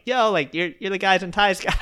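imitated excited fan. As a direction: act out a stranger's excited recognition. Imitates fan recognising him on lawn.

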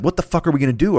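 Tasmanian Devil frenzy. Retold or imitated. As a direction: spin up like a cartoon whirlwind. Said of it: "I spin up Tasmanian Devil style".

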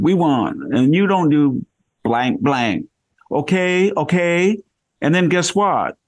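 high, emphatic mock Valley girl; Valley Girl accent. Imitating the consul woman quizzing him on Obama, Valley Girl accent. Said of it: "went from a heavily accented Chinese".

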